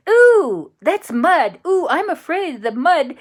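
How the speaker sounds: high, loud frightened squeal; scared dinosaur. Acted. Rex the dinosaur squeals at the mud, scared. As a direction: squeal like a nervous little dinosaur at the swamp.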